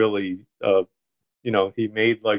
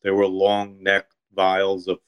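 measured, even literary narration; story reading; 2 semitones lower than usual. A narrator's reading. Author reading his deli story to a listener, story reading. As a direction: read your own short story aloud.

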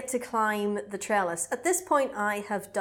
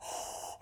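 heavy breathing; 11 dB quieter than usual. Retold or imitated. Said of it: "staggering up the steps and going".

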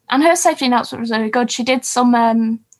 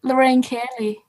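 put-on unconvincing Scottish accent; attempted Scottish accent; 3 dB quieter than usual. Copying contestant's accent trick, badly faked Scottish accent. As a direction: have a poor go at Scottish. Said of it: "I can't say Lorraine Kelly in a Scottish accent".

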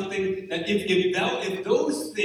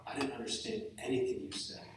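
imitating a critic; 3 semitones lower, 11 dB quieter than usual. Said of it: "one of you would come up to me and tell me".

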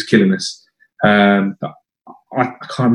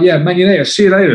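higher-pitched, light Dutch impression; a hint of Dutch accent, pitched up; 6 semitones higher than usual. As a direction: imitate a cocky Dutchman, lightly. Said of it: "He had this Dutch accent".

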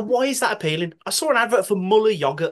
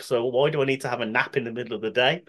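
real, lower-pitched Brummie lilt; Brummie accent; 5 semitones lower, 3 dB quieter than usual. Real, not acted. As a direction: grumble lightly in Brummie. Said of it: "That was the brummiest thing".

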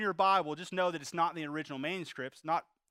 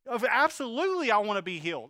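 emphatic yes; 3 semitones higher, 4 dB louder than usual. Retold or imitated. Preacher voicing the expected answer to Jesus, emphatic. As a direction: answer as if it were obvious. Imagined natural reply to Jesus.

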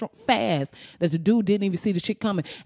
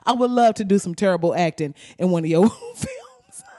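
laughing offer; 3 dB louder than usual. Real, not acted. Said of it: "If you want me to act in something".

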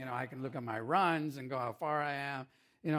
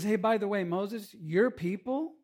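louder, higher, slowing on your people; mock God, pointed; 5 semitones higher, 4 dB louder than usual. God tells Moses on the mountain, your people, in mock reproach. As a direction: hand Moses the blame, teasing. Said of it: "God looks at Moses and says".

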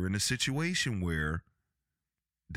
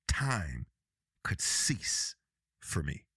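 whisper; 3 semitones lower, slower than usual. Real, not acted. Dramatic whisper about death.

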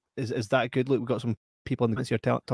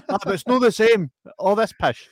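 wife complaining; 8 semitones higher, 7 dB louder than usual. Retold or imitated. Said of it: "I'm like".

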